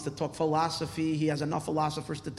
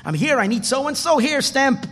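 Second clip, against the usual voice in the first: higher, louder voicing of a quick royal audience; lightly acted petition; 8 semitones higher, 8 dB louder than usual. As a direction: put the request and the stamp across emphatically. Petitioner and king, brisk exchange.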